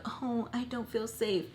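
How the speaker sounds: slow, mocking poor-me voice; drawn-out mock helplessness; playing the victim. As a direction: mimic him acting the victim. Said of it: "like, if he was a victim".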